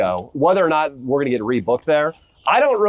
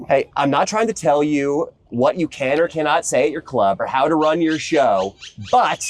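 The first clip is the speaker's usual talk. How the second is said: lispy voice; 2 semitones higher than usual. Retold or imitated. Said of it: "I'm gonna do it in kind of a lispy voice".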